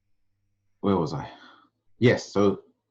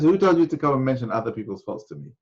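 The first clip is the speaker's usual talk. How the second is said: higher-pitched retold reprimand, hurried; upset scolding; 7 semitones higher, 4 dB louder, faster than usual. Sheikh rebukes a man who keeps repeating himself, upset. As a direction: imitate an upset teacher telling someone off. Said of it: "why he was getting upset".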